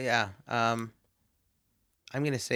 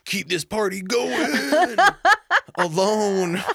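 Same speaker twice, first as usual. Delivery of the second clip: rising into a laughing squeal; 5 semitones higher, 4 dB louder than usual. Retold or imitated. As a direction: crack up mid-sentence. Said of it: "I'm like".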